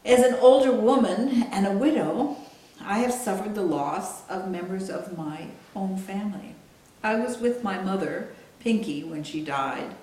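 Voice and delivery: measured book reading with deliberate pauses; solemn literary reading, spaced out; author reading aloud. Acted. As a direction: read your own memoir aloud, phrase by phrase. Continues reading her book aloud.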